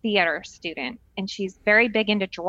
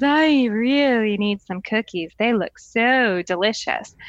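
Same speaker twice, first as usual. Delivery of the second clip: put-on slow, wanting little-kid voice; a three-year-old begging for cookies; toddler longing; slower than usual. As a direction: drag it out like a child eyeing cookies. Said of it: "she's looking at the cookies".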